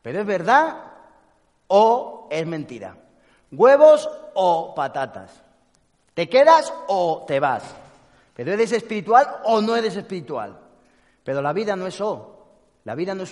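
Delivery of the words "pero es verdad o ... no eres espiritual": louder, anxious questions from the rational mind; frantic mind. Retold or imitated. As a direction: fire the either-or questions out loud and slow. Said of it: "la mente necesita saber".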